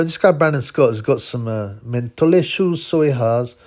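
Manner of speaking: hammed-up, badly faked Welsh accent; amateur Welsh lilt, put on for mockery. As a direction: have a rough go at sounding Welsh. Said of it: "a bad Welsh accent".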